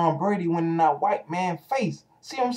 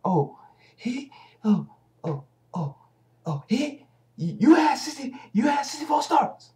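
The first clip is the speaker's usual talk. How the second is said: higher, half-crying mock voice; mocking imitation; 8 semitones higher than usual. Mimicking Skip grilling Cordell, mock crying and higher. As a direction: parody him stammering out the stats. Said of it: "what he did to Cordell".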